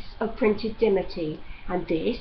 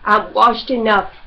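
dry, loud sarcastic jab; 9 dB louder than usual. Acted. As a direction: sneer the words out. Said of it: "said Judd sarcastically".

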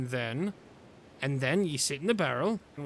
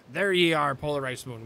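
loud pirate captain, second try; 3 dB louder than usual. Acted. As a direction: bellow it like a sea captain. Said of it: "I always get my pirate voices mixed up".

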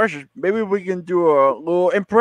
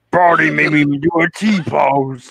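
laughing. Acted. Cartoon boss complaint, laughing.

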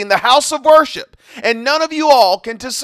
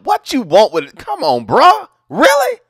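exasperated really, pitched way up; incredulous; 3 dB louder than usual. Real, not acted. Outraged disbelief at abuser.

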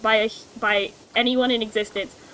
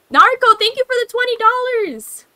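booming evil overlord thanks; grand villain proclaiming thanks; dark lord voice; 3 semitones higher, 4 dB louder than usual. Pretend. Thanking a donor, villain persona.

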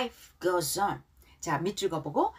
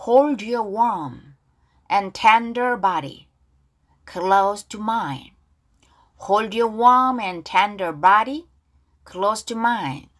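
louder, very slow, stretched words; slow, drawn-out model reading; 5 dB louder, much slower than usual. Shown as a demonstration. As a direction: lay it out gently for students to echo. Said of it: "가사 발음 따라볼게요". (크고 아주 느리게 늘여서)

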